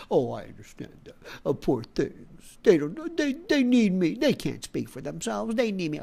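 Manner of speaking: condescend like a do-gooder; mock patronizing pity. Mocking patronizing people, cooing fake pity.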